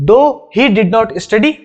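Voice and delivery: very slow, word-by-word English example; deliberate dictation pace; slow example reading. Shown as a demonstration. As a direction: read it out slowly for students to copy. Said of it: "example दे रहा हूं".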